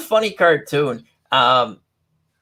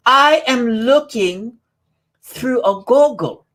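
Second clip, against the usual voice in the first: put-on slow, higher kid voice; little Jimmy; 5 semitones higher, slower than usual. To a parent, little Jimmy answers in a slow, high voice. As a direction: play the child, drawing out each word. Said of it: "little Jimmy".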